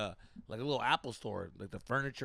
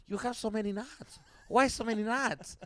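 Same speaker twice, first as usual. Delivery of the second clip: high, slowed mock Asian accent on the knots; mock the masseuse in a high Asian accent; 8 semitones higher, 4 dB louder than usual. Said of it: "I did the accent the whole time".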